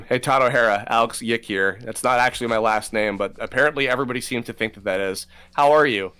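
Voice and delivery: lightly voiced character greeting; casual hello in character; Alex Yick voice. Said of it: "Can you just real quick say, in Alex Yick".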